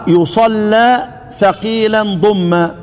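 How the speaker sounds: slow chanted recitation of the poem; reciting didactic verse. Acted. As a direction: intone the verse measuredly.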